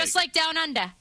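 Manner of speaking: cheeky Aussie "down undah"; mock Australian accent. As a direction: toss it off in a playful Australian accent. Puts on Down Under accent.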